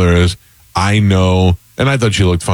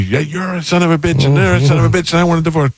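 angry wife; 8 semitones higher, faster than usual. Retold or imitated. Wife yelling in car fight.

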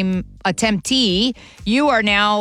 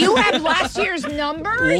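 surprised; 10 semitones higher, slower than usual. Real, not acted. Caller reveals last year's numbers.

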